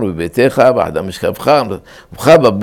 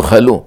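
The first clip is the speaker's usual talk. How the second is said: חלו said "kha-LU"; חלו end-stressed for demonstration; stress on last syllable; slower than usual. Shown as a demonstration. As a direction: put the weight on the end of חלו. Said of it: "מלרע".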